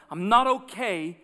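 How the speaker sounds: rising preacher's plea; passionate. Acted. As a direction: preach it with conviction, not okay punched. Passionate call to action.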